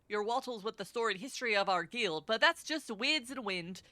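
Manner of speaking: lightly put-on Scottish brogue; a hint of a gruff Scottish rogue; terrible Scottish accent. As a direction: read it in a rough, amateur Scottish accent. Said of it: "my really terrible Scottish accents".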